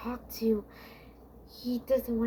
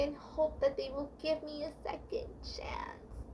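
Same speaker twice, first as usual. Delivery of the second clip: higher, begging prayer fading to a whisper; pleading prayer; 4 semitones higher than usual. Retold or imitated. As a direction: beg God for a second chance. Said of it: "I have been praying to God".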